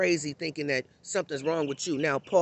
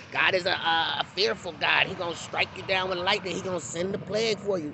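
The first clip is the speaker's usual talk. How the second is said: mock fire-and-brimstone preacher. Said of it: "throwing fear into our kids".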